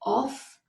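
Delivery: of said as OFF; of with an F sound; wrong of. Shown as a demonstration. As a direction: demo the wrong of, OFF.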